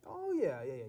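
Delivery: overeager yes. Acted. Nervous contestant blurts eager agreement to the host. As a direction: jump in too eagerly.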